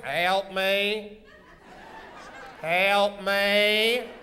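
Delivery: drawn-out hammy plea; damsel's cry for help. Shown as a demonstration. Host showing little Cindy Lou's line, drawn-out mock plea. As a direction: stretch each word like a melodrama damsel. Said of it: "you run forward going".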